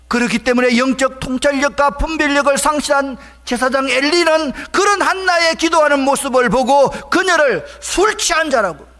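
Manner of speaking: loud, high-pitched pulpit storytelling; high, driving preacher's shout; impassioned preaching. Real, not acted. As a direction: declaim the priest's rebuke at full force. Preaches the priest's rebuke at full force.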